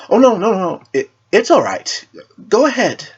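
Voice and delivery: put-on high, hurried flustered girl's voice. Raven waving off the knight's polite offer, flustered and high. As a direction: caught off guard, brushing it off. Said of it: "almost flustered".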